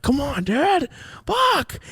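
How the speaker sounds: high-pitched acted whine; plead, then curse up high; retold exasperated begging; frustrated pleading.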